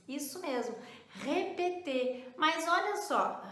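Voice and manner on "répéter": slow "répéter" with every vowel a closed ay; "répéter" drawn out as ray-pay-tay, silent final r; closed acute É. Shown as a demonstration. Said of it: "ela tem um acento agudo".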